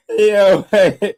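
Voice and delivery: loud, high yo hey; excited call. Real, not acted. Streamer grabbing chat's attention, loud and excited. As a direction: call out to chat, thrilled.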